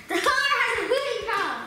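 fast, garbled through a stretcher; mangled words, lips held apart; mouth guard in. Real, not acted. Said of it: "try and say it with the mouth guard in".

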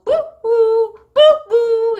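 high, drawn-out ghost hooting; ghostly boo. Shown as a demonstration. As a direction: wail "boo" like a spooky ghost. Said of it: "이렇게 내죠".

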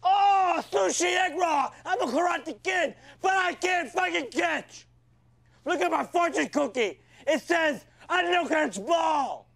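hammed-up mocking voice of a fumbling player, shouted; mean mock teammate, yelled and clumsy; Mossy impression. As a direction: shout it like a cruel locker-room parody. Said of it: "Here's my impression of Mossy trying to catch the ball".

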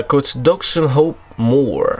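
slow, careful mock English accent on "Oxenhope Moor"; first stab at an English accent, saying "Oxenhope Moor" slowly; French speaker hamming up an English accent on "Oxenhope Moor"; English accent attempt. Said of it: "Je sors mon meilleur accent anglais".

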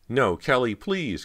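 high, loud frightened plea; begging. A narrator's reading. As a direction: beg for mercy. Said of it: "Cody begged".

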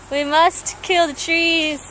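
slow, measured antelope mobster; antelope mafia member. Acted. Antelope addressing the mafia meeting, slow mock-solemn declaration. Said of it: "He's like".

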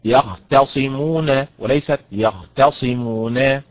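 يختصمون said slowly twice, moving the stress; demonstrated stress contrast. Shown as a demonstration. Teacher contrasting stress for students, slow demo. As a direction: spell out both يختصمون slowly, shifting the stress. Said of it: "إذن هي يخ".

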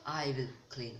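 retold line, lightly dramatized; mock dramatic. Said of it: "I'm just trying to make it dramatic".

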